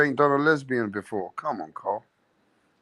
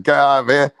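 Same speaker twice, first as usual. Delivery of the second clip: loud command; 6 dB louder than usual. Retold or imitated. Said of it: "I said".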